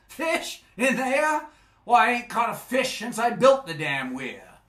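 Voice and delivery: can't believe his ears; incredulous. Acted.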